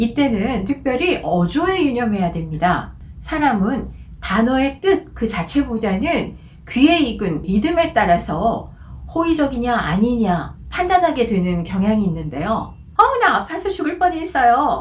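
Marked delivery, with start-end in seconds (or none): 13.0-14.8 high, bright cheerful tone. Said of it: "밝고 명랑한 어조로".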